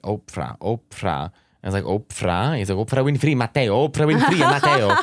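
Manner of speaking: retold excited friend.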